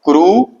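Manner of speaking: syllable क्रू stressed for the class; emphasised syllable. Shown as a demonstration. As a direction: hit the syllable क्रू firmly. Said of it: "तो देखिए".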